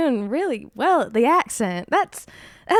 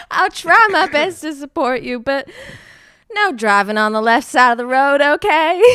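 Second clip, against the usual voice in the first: acted mother; 3 semitones higher, 9 dB louder than usual. Mother in sketch, teasing.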